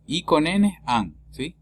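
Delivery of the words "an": IN said as "an"; French nasal "an". Shown as a demonstration. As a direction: say "an" for I plus N. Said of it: "se pronuncia an".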